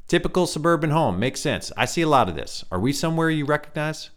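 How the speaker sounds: high reedy musing voice; curious strange scientist; light reedy stranger. A narrator's reading. Stranger studying Ryan's memory, high reedy voice. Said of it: "light, reedy voice".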